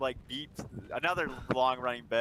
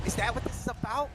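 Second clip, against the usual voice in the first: high mocking rant; 12 semitones higher than usual. Mocking the partner about meat in the mac, rising high rant. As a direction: build a shrill sarcastic rant. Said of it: "It's like".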